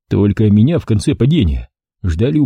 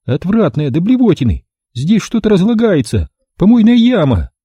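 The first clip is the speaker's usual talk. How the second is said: disgusted woman; 9 semitones higher than usual. A narrator's reading. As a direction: spit out the disgust.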